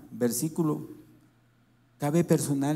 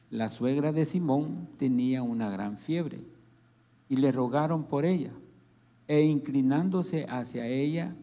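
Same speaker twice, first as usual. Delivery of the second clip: scripture reading; 4 dB louder than usual. Acted. Pastor reading Luke aloud to the congregation, declaiming. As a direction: proclaim each verse as holy word. Reads the Bible passage aloud.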